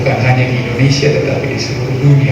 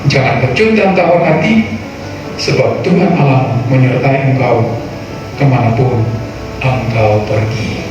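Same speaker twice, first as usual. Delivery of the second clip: solemn Bible reading over music; scripture reading; 3 semitones higher than usual. Acted. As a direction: read scripture with weight. Reads scripture aloud. (pembacaan Alkitab yang khidmat)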